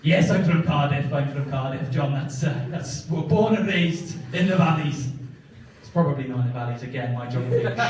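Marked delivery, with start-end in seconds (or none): 0.0-5.1 slow Welsh lilt; Welsh accent. Retold or imitated. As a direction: lay on the Welsh, slowly. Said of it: "Welsh accent I can hear".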